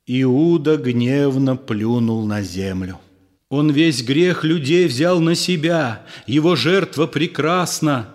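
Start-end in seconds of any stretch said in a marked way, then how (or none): 3.5-8.1 higher, pressing the point firmly; insisting. Acted. Disciple insisting against Judas, firm and raised. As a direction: hold your ground and insist. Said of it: "настаивал Иоанн".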